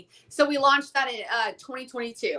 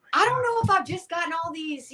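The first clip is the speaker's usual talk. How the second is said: whispered; 6 semitones higher than usual. Retold or imitated. Retelling private doubt.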